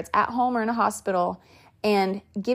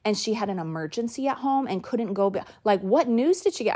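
frightened. Retold or imitated. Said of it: "I was so, like, frightened".

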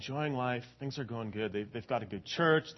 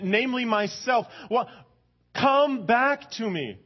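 high, loud, pleading divine voice; a jealous, loving God, preached at full force; 9 semitones higher, 6 dB louder than usual. Pretend. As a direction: speak as God calling his people back. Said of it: "He says".

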